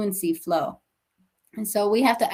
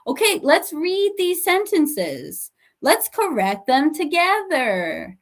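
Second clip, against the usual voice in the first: bright and upbeat; rally the whole class; cheerful class call; 5 semitones higher than usual. Shown as a demonstration. Teacher inviting the class to correct together, upbeat. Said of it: "teacher addressing class".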